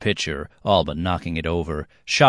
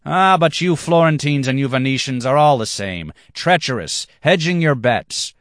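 much higher, louder scorn, slowing at end; contemptuous rant; 9 semitones higher, 6 dB louder than usual. Acted. Black-haired man insults Florentines and Venetians, loud and scornful. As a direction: spit out the insult.

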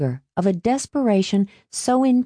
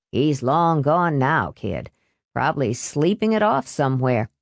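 put-on gruff older man voice; 3 semitones lower than usual. Old bar man voice.

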